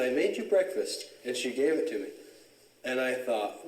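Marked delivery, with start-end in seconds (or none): 0.1-1.1 imitating a girl, pitched well up; Blanche. Girl handing him a brown bag, imitated high offer. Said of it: "She said".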